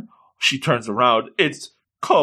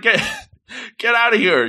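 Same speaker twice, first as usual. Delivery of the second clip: laughing mock shoo; 8 semitones higher, faster than usual. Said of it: "I'm like".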